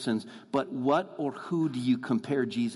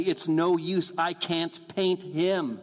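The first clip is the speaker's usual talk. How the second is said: mildly raised, retold cry of defeat, slowing at the end; exasperated exclamation; 3 semitones higher, slower than usual. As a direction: give up, drawing out the last words. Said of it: "he finally exclaimed one day".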